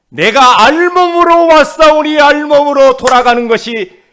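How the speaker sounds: high, shouted declamation; Job declaring. Acted. Job accepting his losses before God, loud declaiming. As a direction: cry it out loudly as a solemn proclamation. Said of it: "이 욥이라고 하는 사람이".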